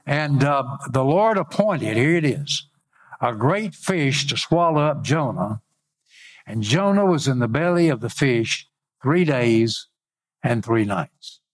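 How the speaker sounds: measured preacher's Bible reading; scripture reading. Acted. Preacher reads Jonah's story to congregation, declaimed lightly. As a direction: read the verse out deliberately, phrase by phrase.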